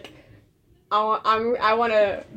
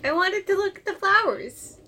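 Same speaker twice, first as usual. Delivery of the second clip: innocent character voice; 9 semitones higher than usual. Acted. Player speaks in character voice.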